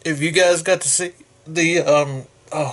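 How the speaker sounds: talking through hiccups; interrupted by a hiccup. Real, not acted. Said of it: "I got the hiccups".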